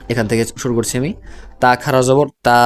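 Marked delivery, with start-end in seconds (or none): 1.6-2.6 final তা held long and level; long madd vowel. Shown as a demonstration. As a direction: spell it out, then stretch the last তা by one alif. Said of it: "এক আলিফ টেনে উচ্চারণ করতে হবে".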